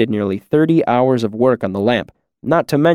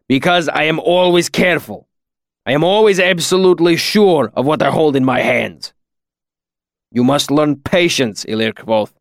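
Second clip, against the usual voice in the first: Kilvin, grave; 3 semitones higher than usual. A narrator's reading. Master teaching his student patience, grave accented admonition. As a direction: lecture solemnly, each word carefully weighed. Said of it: "he said gravely".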